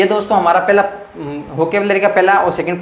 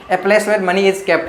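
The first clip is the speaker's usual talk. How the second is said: slow dictation; much slower than usual. Shown as a demonstration. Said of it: "teacher repeats the definition slowly".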